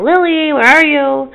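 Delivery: put-on high, searching call for a lost child; retold calling yell. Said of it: "I yell".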